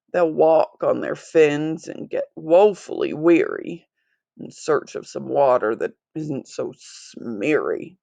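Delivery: lightly voiced Lorax, mildly angry then mournful; cross Lorax. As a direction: scold the factory owner, then grieve for the fish. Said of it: "his dander was up".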